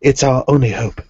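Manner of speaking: lightly attempted Cockney; a go at a London Cockney accent. Shown as a demonstration. Friend taking the Cockney request, Cockney accent. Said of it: "Cockney, Cockney version?".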